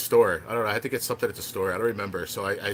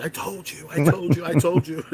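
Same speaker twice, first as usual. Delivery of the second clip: much higher, loud triumphant chant; gleeful yelling; 7 semitones higher, 5 dB louder than usual. Retold or imitated. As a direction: yell it again and again, gloating. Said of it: "she was yelling".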